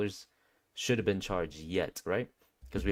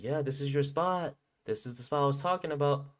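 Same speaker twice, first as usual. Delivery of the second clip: higher, cheery imitation of the hostess; happy; 5 semitones higher than usual. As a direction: lift the pitch, pleased with the spot. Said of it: "She was so happy".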